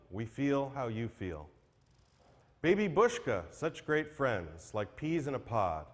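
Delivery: measured rhyming recitation with lines spaced by pauses; poem recital. Acted. Reading a farewell poem for a late friend, solemn recitation. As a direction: read it like a tribute poem on stage.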